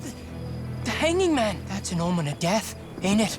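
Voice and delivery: high, halting dread; frightened. Acted. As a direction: stammer it out, spooked by a bad omen. Frightened soldier sees bad omen.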